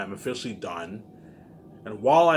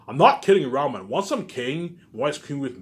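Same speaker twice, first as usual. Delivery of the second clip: louder, higher, fed up; raised voice, done warning them; angry shout; 3 semitones higher, 5 dB louder than usual. Real, not acted. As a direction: bark it at them, furious. Angry rant at viewers.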